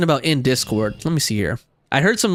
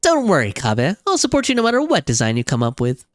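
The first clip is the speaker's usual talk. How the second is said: raised, supportive character voice; game character voice. Acted. Promising Kaveh support, raised character voice. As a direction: reassure in a lilting acted voice. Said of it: "trying my best to voice all these different characters".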